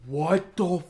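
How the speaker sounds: slow, drawn-out disbelief; retold astonishment. Fan reliving Tobey Maguire stepping through, astonished. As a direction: stretch each word as if stunned.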